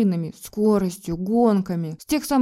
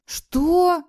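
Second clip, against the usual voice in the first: sharp, much higher indignant Что?; 10 semitones higher, 4 dB louder than usual. A narrator's reading. Wife outraged at husband's accusation, indignant. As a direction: fling it back, outraged. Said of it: "возмутилась я".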